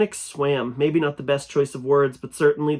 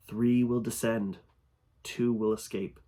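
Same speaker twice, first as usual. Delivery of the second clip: ominous prophecy; 3 dB quieter than usual. Acted. Creature delivers a prophecy.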